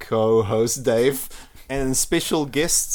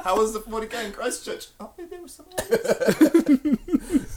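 far from the mic; 9 semitones higher than usual. Retold or imitated. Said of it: "he's in the next room yelling".

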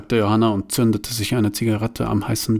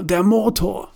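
alarmed cry; 9 semitones higher than usual. Acted. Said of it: "rief Johanna".

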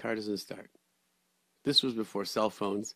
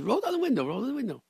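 much higher, urgent repeated request; a hint of an eager stranger at the window; mock urgent call; 13 semitones higher, faster than usual. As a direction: urge him to open up. Man urges through car window.

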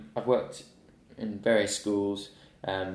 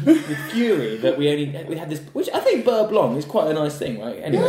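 talking through real laughter; laughing; 6 semitones higher, 8 dB louder than usual. Real, not acted. Telling the gravy story while laughing out loud. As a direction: laugh through the words, louder.

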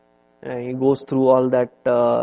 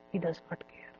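sudden soft; 4 semitones higher, 15 dB quieter, faster than usual. Real, not acted. Sudden soft drop after build.

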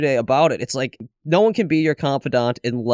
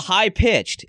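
the word said in a higher pitch; 6 semitones higher than usual. Shown as a demonstration. Describing talk to a baby, pitched high. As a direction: pitch it up to show what high-pitched means. Echoes the manner while naming it.

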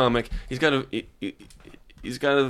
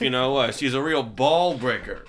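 put-on old borscht belt comic; 3 semitones higher than usual. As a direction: play a cheesy eighties stand-up. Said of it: "a bad eighties comedian".

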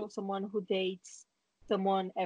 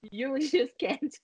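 laughing; 5 semitones higher, slower than usual. Real, not acted. Teasing, laughing at her friend.

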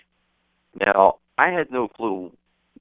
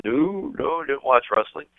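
slightly higher, drawn-out "no"; imitated wife's denial; 6 semitones higher than usual. Wife answering husband about wrestling, lightly imitated denial. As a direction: lightly voice a wife dismissing the idea.

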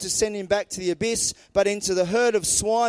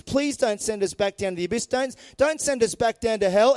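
begging demons. Acted. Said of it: "begging Jesus".

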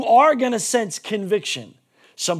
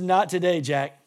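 dismissive brush-off; 5 semitones lower than usual. Retold or imitated. Pharaoh refusing Moses, a low dismissive brush-off. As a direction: shut him down coolly.

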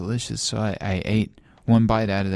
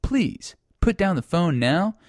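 hotline recording voice; 5 semitones higher than usual. Acted.

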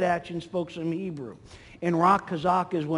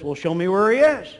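louder, rising to a ringing finish; acted eager reply; 6 dB louder than usual. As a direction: call it out, building to the last word.

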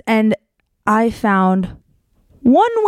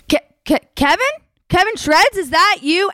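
surprised; 7 semitones higher than usual. Retold or imitated. Surprised recognizing her date.

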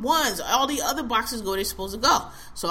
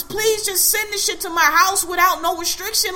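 higher, louder, fed-up repeat; a touch louder, exasperated insistence; exasperated quote; 9 semitones higher, 5 dB louder than usual. Retold or imitated. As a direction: spell it out again in frustration. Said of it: "all I said to you was".

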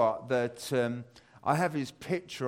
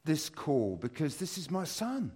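thrilled the son is calling; super excited; 5 semitones higher than usual. Retold or imitated. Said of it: "and I get super excited".

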